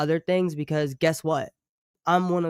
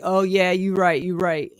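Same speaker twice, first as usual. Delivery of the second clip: grudging copyright bot; 4 semitones higher, 4 dB louder than usual. Retold or imitated. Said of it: "and it's like".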